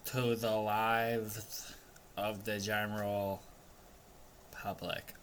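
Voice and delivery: slow, deliberate legal disclaimer; formal disclaimer. Acted. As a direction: read it like fine print. Mock disclaimer after joke.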